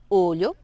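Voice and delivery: OLHO with a palatal l; Portuguese LH. Shown as a demonstration. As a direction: model "olho", mouth a little closed. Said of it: "para practicar sería pronunciar".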